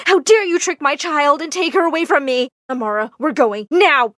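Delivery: indignant scolding building to a loud order; outraged. Acted. Mama accusing Mister Armitage of tricking her child, outraged. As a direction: accuse him, then order her out loudly. Mother confronts man, drags daughter away.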